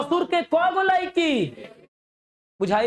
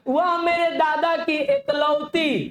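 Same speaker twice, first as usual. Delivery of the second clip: slow reading; 4 semitones higher, slower than usual. Shown as a demonstration. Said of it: "किसकी बाबू?".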